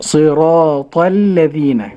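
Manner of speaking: very slow صراط الذين, heavy ta, light lam; correct pronunciation. Shown as a demonstration. Student repeating correct صراط الذين, slow and careful. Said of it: "النطق الصحيح".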